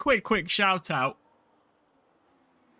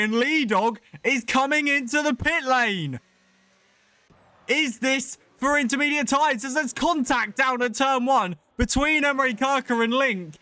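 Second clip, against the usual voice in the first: excited play-by-play; 4 semitones higher than usual. Real, not acted. Live call of pit gamble.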